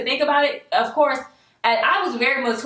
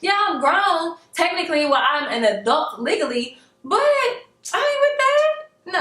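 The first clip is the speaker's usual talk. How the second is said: sassy retort; 6 semitones higher than usual. Retold or imitated. To the pushy date: high, indignant, sassy refusal. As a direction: put him in his place, high and indignant. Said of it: "I'm like".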